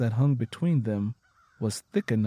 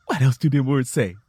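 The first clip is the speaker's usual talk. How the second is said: eager and smiling; 6 dB louder than usual. Acted. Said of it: "Lenny Gray smiled and said".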